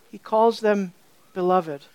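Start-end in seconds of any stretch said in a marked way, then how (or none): 1.3-1.9 lower-pitched, tender endearment. Retold or imitated. Author calling his readers by an endearment, tenderly. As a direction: let the word land gently. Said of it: "Such tenderness in these words".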